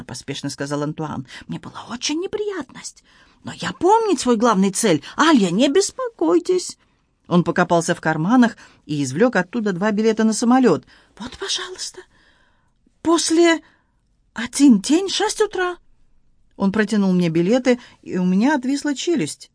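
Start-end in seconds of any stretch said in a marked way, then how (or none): 1.5-6.8 excited Frenchman in broken Russian, high; Antoine voice. Acted. Antoine speaks. 11.2-15.8 excited Frenchman in broken Russian, high; Antoine voice. Acted. Antoine speaks.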